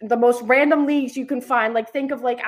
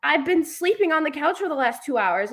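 high, loud mock confusion; reliving being woken, pitched high and baffled; confused disbelief; 6 semitones higher, 3 dB louder than usual. Woken daughter asks dad what he means, high and baffled. Quoting own confused reaction.

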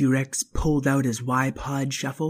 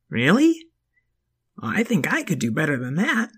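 put-on kid voice; 3 semitones higher, 3 dB louder than usual. Child voice.

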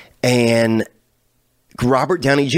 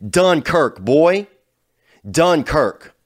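hype shout; 5 semitones higher, much slower than usual. Real, not acted. Hyping Dunkirk loudly.

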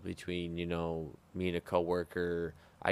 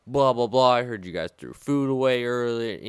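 mock angry chef; 5 semitones higher, 10 dB louder than usual. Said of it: "So chef comes in and he's like".

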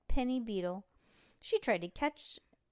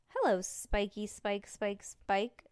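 cooing; slower than usual. Acted. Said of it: "Stink cooed".

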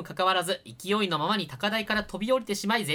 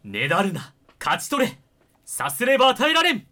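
solemn quote; 5 dB louder than usual. Acted. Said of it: "姉に書きかされた言葉".

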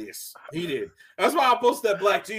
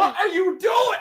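high, loud, drawn-out disbelieving yell; yelling at a video; 11 semitones higher, 6 dB louder, slower than usual. Retold or imitated. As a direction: shout it in outraged disbelief. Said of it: "yelling at the video".

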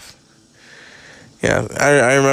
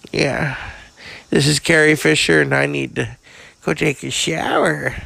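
lightly voiced raspy old actress, bawdy and blunt; a hint of a jaded Hollywood diva dishing dirt; Carrie Fisher; 4 semitones higher than usual. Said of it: "So, Carrie".

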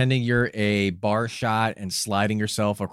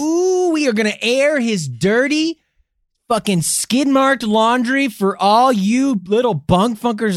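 gleeful gossip hype; 8 semitones higher, 4 dB louder than usual. Pretend. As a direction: ham it up like a scandal-monger. Hammed-up gossip-monger address to listeners.

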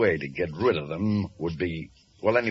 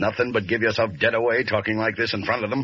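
fast scolding; 4 semitones higher, faster than usual. Acted. Boss berates him fast.

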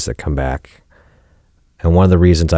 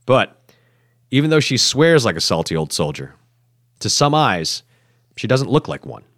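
scripted documentary narration; voice-over narration; 4 dB quieter than usual. A narrator's reading. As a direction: narrate to listeners in measured phrases. Scripted voice-over narration between stories.

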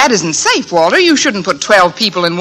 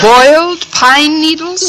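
incredulous echo; 6 semitones higher, slower than usual. Acted. Echoing a bizarre breakfast dish.

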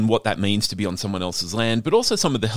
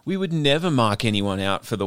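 lightly voiced smug Australian, higher; mock proud Australian; 8 semitones higher than usual. Host mocking Australians who deny accent snobbery, ironic boast. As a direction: ironic patriotic boast, pitch up. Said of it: "if you ask any Australian".

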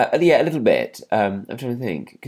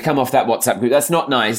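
lightly imitated mum, a bit louder; scolding mum; 3 semitones higher, 5 dB louder than usual. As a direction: tell them off like a mother, mildly. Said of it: "Mum said".

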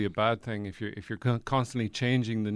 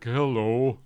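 worn-down later voice. Shown as a demonstration. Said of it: "then it became more like".

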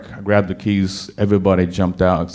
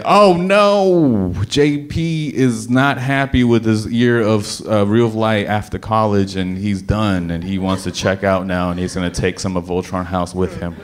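paranoid. Retold or imitated. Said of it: "my paranoid mind was like".

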